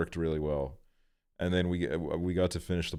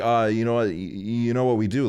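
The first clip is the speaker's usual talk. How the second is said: put-on excited little kid; 5 semitones higher, 5 dB louder than usual. Niece making up rules mid-game.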